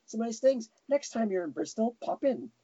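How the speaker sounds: high-pitched mock British accent; breezy invite in a vague UK accent; Mrs Doubtfire UK accent. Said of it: "I have my Missus Doubtfire U K accent".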